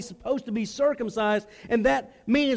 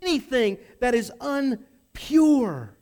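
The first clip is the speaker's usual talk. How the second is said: higher and louder, stress on never; indignant protest; 4 semitones higher, 3 dB louder than usual. Acted. Peter protesting to God, indignant and loud. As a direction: insist on your purity, offended. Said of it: "He would protest this".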